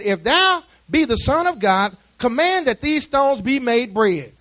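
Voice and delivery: slow, measured scripture voice; reading the tempter. Retold or imitated. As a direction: read the tempter's words deliberately. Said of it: "he said".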